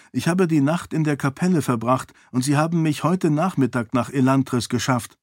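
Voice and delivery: a hint of an eager princess explaining; lightly voiced princess. Princess explains her arrival to her servant, lightly voiced heroine.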